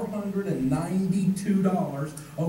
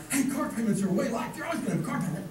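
mock enthusiasm; 4 semitones higher, faster than usual. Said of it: "no one says it with enthusiasm like".

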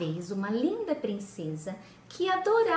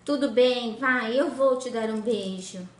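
louder, grudging giving in; reluctant princess; 4 dB louder than usual. Acted. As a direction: give in with a sulky huff.

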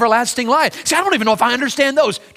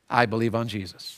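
hushed confession; 11 semitones lower, 9 dB quieter than usual. Acted. Quiet prayer of faith.

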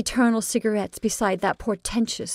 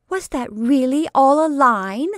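curious; 6 semitones higher, 7 dB louder than usual. Acted. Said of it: "asked Roberta curiously".

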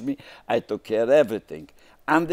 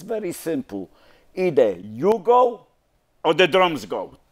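wife's ultimatum; 7 semitones higher, 4 dB louder than usual. Retold or imitated. Wife telling husband either he or the drums go, high and loud. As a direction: lay down the law as the fed-up wife.

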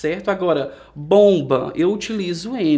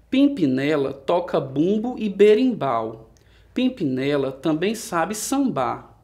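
measured recitation with pauses after each verse; poem reading. Acted. Teacher reading a monkey poem to pupils, measured recitation. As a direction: read it line by line like a children's poem.

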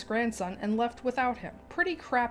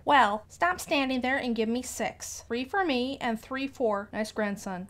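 sighing grandma; 3 semitones higher than usual. Acted. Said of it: "E G sighed".

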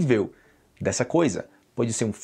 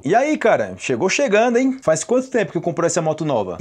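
impressed greeting; 3 semitones higher than usual. Acted. Greeting a friend with a new motorbike.

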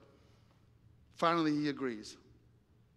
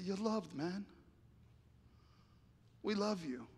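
soft, gentle comforting; tender reassurance; 4 semitones higher, 6 dB quieter than usual. Retold or imitated. Friend comforts Bob at his party, tender. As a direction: reassure a tearful friend quietly.

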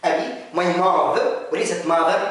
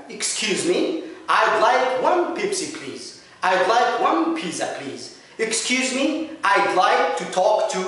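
polite ordering demo; 3 semitones higher, much slower than usual. Shown as a demonstration. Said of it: "تطلب حاجة من أي مكان".

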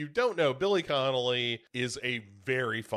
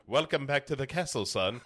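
Claude Rains. Retold or imitated. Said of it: "Lon Chaney Junior to Claude Rains".

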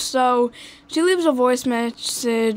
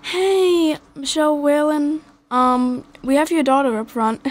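slightly higher voice for a phone message; a hint of the caller's higher pitch; lightly voiced lady; 4 semitones higher than usual. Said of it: "like, the lady saying".

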